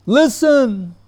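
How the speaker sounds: acted call to attention, pitched right up; Babaji Maharaj. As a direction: mimic him with one high, drawn-out command. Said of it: "and he said to us, he went".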